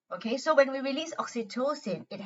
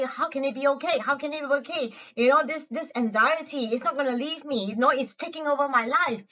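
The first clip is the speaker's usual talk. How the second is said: higher, worried protest; anxious self; 4 semitones higher than usual. Shown as a demonstration. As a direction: doubt it with mild anxiety. Anxious self questioning the heart.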